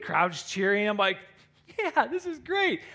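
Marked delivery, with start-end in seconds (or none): 1.8-2.8 high, slow gloating delight; acted elation. Lifter enjoying the cheering crowd, acted elation. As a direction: draw it out high, basking in the cheers.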